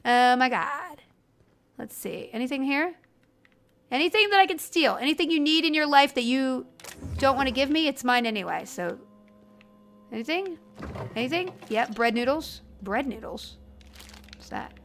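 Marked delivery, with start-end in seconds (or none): 0.0-11.5 put-on bubbly valley girl, shameless looting. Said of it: "Valley Girl impression?".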